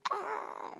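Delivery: tiny high scream, very soft; mock muffled scream. Shown as a demonstration. Showing how to scream in your pillow, small mock scream. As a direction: fake a scream smothered by a pillow. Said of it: "scream in your pillow".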